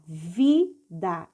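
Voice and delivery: "Vida" split into vi, da; teacher's two-beat reading of "Vida"; syllable by syllable. Shown as a demonstration. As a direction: sound out "Vida" slowly, each syllable separate. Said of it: "vamos ler passo a passo".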